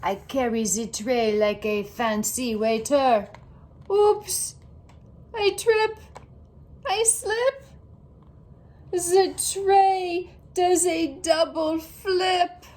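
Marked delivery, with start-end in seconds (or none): 3.9-12.6 high, startled little cries. A narrator's reading. Girl tripping with the tray, high startled yelps. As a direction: yelp as you stumble.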